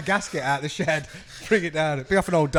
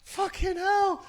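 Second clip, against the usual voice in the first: laughing disbelief; much slower than usual. Real, not acted. Laughing at a singer's gaffe.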